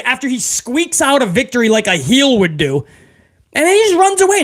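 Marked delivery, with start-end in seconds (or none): 3.6-4.4 mocking. Real, not acted. Mocking Cody running away.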